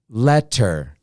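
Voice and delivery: "letter" as let-ter, two clear beats; syllable by syllable. Shown as a demonstration. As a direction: say "letter" with both syllables set apart. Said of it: "there is a second syllable".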